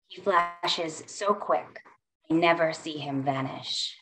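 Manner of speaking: lyrical, rhythmic poem recitation; poetry reading. Acted. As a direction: perform it like spoken word. Reads her poem aloud.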